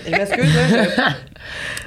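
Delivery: hoarse from coughing; coughing fit. Real, not acted. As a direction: apologise between coughs. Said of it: "j'arrête pas de tousser". (quinte de toux)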